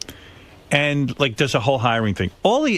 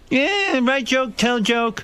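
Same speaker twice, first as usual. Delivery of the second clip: much higher still, slow broken English; higher, slower mock-simple Jay; mock Jay caveman talk; 11 semitones higher, much slower than usual. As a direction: push the dumb voice even further up. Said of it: "he goes".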